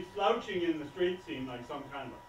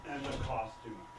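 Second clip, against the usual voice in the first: low, softer weary mention; weary complaint; 6 semitones lower, 6 dB quieter than usual. Acted. Director listing his troubles to the waitress, wearily. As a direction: let it drop, low and subdued. First take, resigned complaint.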